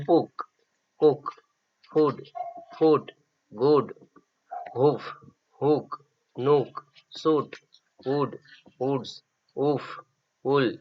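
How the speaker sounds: teacher modelling short vowel words; quiet drill of word list; reading a word list. Shown as a demonstration. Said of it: "असा उच्चार होणारे शब्द".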